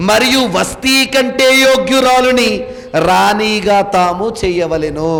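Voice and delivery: declaimed verse with long, held syllables; preacher's measured Bible recitation; scripture reading. Acted. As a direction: read it out formally, sustaining a level tone. Reads scripture aloud to congregation.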